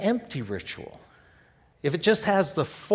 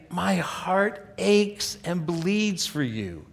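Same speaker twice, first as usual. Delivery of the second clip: aching lament; slower than usual. Shown as a demonstration. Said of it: "you are saying".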